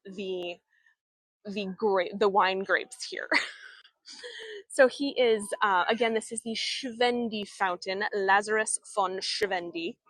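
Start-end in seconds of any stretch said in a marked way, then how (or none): 6.1-10.0 "Schwendi" said in an English accent; the German name read the English way; anglicized English pronunciation of "Lazarus von Schwendi". Shown as a demonstration. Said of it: "in the English accent".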